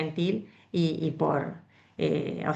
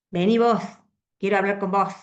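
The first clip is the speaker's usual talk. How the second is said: mock angry summons; 4 dB louder, faster than usual. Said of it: "cuando estamos enojadas".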